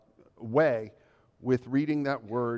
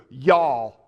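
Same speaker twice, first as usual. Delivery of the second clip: y'all drawled in a Southern accent, a touch louder; a relaxed Southern y'all; 8 dB louder than usual. Shown as a demonstration. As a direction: give them a Southern y'all. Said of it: "communicate that in the way Southerners can hear".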